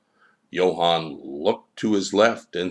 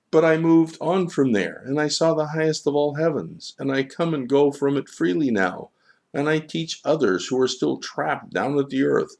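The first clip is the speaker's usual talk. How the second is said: boastful Johann; 7 semitones higher than usual. Acted. Johann boasts of his heavens.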